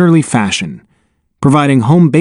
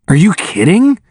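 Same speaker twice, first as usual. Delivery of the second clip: higher-pitched, mildly gleeful question; crowing; 6 semitones higher than usual. A narrator's reading. Nussbaum answers his sleepy friend in the stands, mildly crowing. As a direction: lightly crow it, pitch lifted. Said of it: "Nussbaum crowed".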